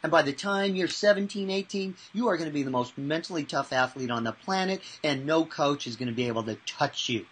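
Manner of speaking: building excitement; mild hype. Retold or imitated. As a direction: rise into an upbeat sell. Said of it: "I go".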